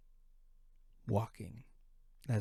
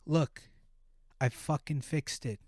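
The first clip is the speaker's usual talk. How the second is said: mock yell; 4 semitones higher than usual. Woman yelling at boyfriend.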